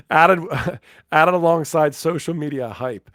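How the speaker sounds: amused laughing. Real, not acted. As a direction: try to read on while laughing. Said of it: "so that's why I'm laughing".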